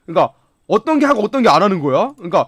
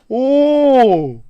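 usual speaking voice

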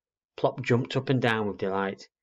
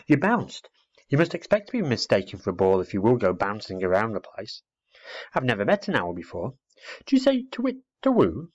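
put-on chatty little girl; 3 dB louder than usual.

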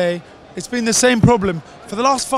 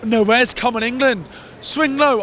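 imitated feeble fans. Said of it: "old white men, sat there going".

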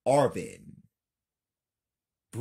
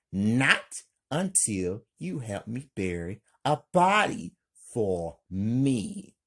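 yelling; 2 semitones higher, 5 dB louder than usual. Acted. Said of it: "Lena yells".

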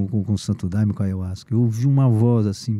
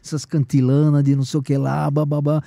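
angry rant; 3 dB louder than usual. Retold or imitated. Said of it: "comecei a ficar com raiva".

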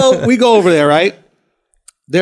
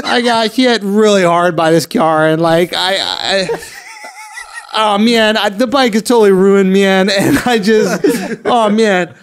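aw shucks voice; 2 semitones higher than usual. Retold or imitated. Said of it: "in his aw shucks voice".

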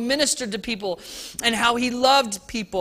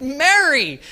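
heartfelt; 5 semitones higher, 5 dB louder than usual. Acted. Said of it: "grabbed her by the very heart and said".

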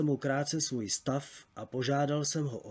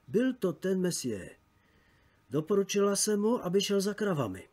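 higher-pitched, lightly voiced girl; narrator's light take on an eager girl; 6 semitones higher than usual. A narrator's reading. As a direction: report it keenly, pitched up. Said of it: "přisvědčovalo horlivě děvče".

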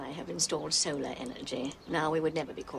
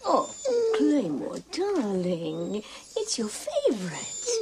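coaxing the dog; 4 semitones higher, much slower than usual. Real, not acted. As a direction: coo at a pet you adore. Coaxing her dog to eat.

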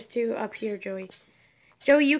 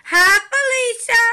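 tag; 10 semitones higher, 10 dB louder than usual. Pretend. Mock greeting to arriving friend.

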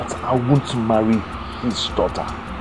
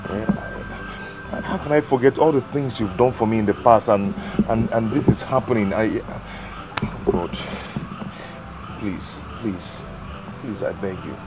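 desperate pleading. Acted. Man begging on knees, pleading.

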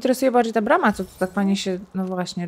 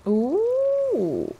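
long, high-pitched "ooh"; sustained high ooh of interest; impressed ooh; 11 semitones higher than usual. Real, not acted. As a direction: coo high at a new find. Reacts to found loot.

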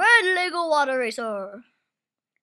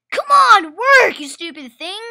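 frustrated yell; 7 dB louder than usual. Real, not acted. Frustrated at stuck toy.

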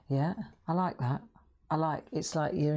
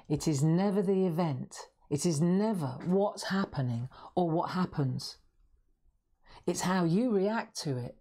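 said slowly and clearly. Shown as a demonstration. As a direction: spell it out, word by word. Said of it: "I'll say that again really slowly".

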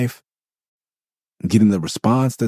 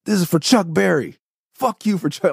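higher, hammed-up fury; mock angry outburst; 13 semitones higher than usual. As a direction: toss off an imitated rage line. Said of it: "got mad at him and said".

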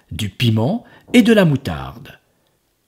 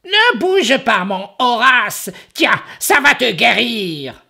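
caring ogress; 13 semitones higher, 4 dB louder than usual. Acted. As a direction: coax him tenderly, high. Ogress spoon feeding.

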